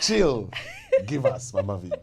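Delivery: laughing through the words; amused, half-laughing repeat of the joke. Real, not acted. Host repeats listener's joke.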